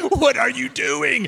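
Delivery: high, loud, drawn-out father's challenge; incredulous father. Retold or imitated. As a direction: call the boy out, stretching the words. Father calls out son's outburst.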